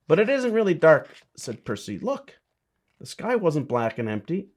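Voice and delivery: lively, sing-song storybook reading; reading to children. A narrator's reading. Bishop reading a picture book aloud to children, lively storybook voice. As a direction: read it like bedtime story time for kids.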